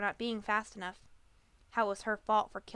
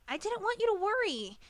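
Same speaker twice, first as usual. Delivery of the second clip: shouted; 11 semitones higher than usual. A narrator's reading. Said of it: "the Pegasus shouted".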